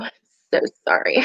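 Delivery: apology swallowed by a yawn. Real, not acted. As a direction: say it mid-yawn, breathy. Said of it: "I keep yawning".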